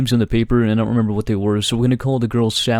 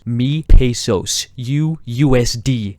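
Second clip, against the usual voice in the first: mock Mexican accent; 3 dB louder, much slower than usual.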